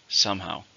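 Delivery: Somehow, with the weight on "Some"; stress on the first syllable. Shown as a demonstration. Teacher modelling the word for learners, stress on "Some". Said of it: "Two, stress on the first".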